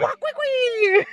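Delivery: alien gibberish. Retold or imitated. Stitch comes out, alien noise.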